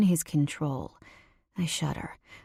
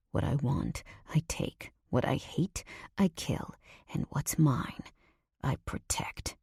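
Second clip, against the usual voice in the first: lightly voiced seductive menace, mostly breath; menacing man's whisper; 2 semitones lower than usual. Nico looming over her, whispering his taunts.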